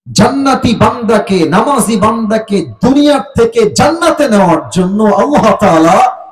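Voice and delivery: sermon chant with stretched phrase endings; melodic preaching. Real, not acted. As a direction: intone it to the congregation like a preacher.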